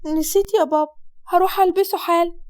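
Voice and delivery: put-on quick girlish apology; startled daughter. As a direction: daughter caught without her veil. Daughter answers father.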